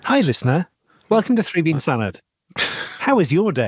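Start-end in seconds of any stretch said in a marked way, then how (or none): 2.6-3.7 slow drawn-out. Shown as a demonstration. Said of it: "basically ask the question".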